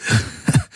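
short, breathless raspy laugh; a voiceless chuckle through tears; weak husky laugh of relief; hoarse laugh. Acted. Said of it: "er lachte heiser".

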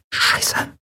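voiceless whispered curse; hushed, whispered swear word. A narrator's reading. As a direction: curse under your breath. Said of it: "flüsterte sie".

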